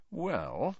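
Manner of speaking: soft, high, sly opener; hushed. A narrator's reading. Malfoy confiding to Harry, hushed. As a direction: drop the volume, voice lifted. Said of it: "lowering his voice to a whisper".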